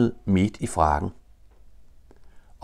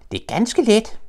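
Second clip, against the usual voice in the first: very high, encouraging little voice; high joey voice; 4 dB louder than usual. Acted. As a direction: reassure him brightly, high. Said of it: "råbte han".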